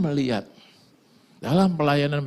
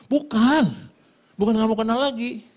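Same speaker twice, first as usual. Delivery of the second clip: imitated friend's reply; 12 semitones higher, 4 dB louder than usual.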